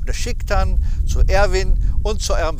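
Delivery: promo read. Acted. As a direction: pitch the giveaway like an ad host. Promo for their giveaway.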